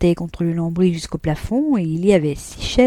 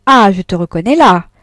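pleased exclamation; 9 dB louder than usual. Acted. Deslauriers pleased.

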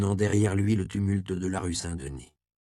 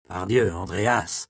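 startled exclamation; 3 dB louder, slower than usual. Acted. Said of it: "s'exclama le vieux bénédictin".

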